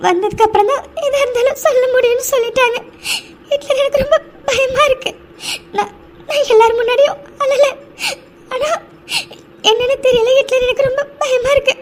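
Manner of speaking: tearful, voice catching on the words; crying. Acted. Frightened sister crying to Hitler in the hospital, tearful. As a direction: cry through the fear for her sister. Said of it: "இது பாப்பா, please நீ அழாத".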